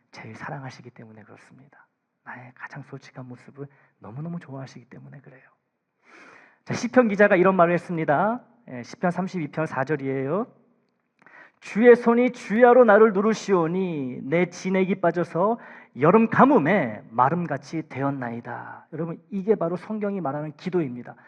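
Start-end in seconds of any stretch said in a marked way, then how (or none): 0.1-5.4 a breathy closing whisper. Real, not acted. Sermon closing sentence in hush. 11.6-18.9 slow, louder, measured Bible reading; solemn scripture reading. Acted. Reads Psalm aloud.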